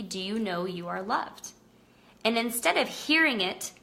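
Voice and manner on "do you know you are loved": tender message. Retold or imitated. Message passed to the baby.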